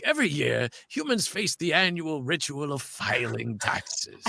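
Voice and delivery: mock-solemn documentary-style commercial read; commercial voice-over. Actor retelling their TurboTax commercial audition, voice-over read. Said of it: "it was a TurboTax commercial".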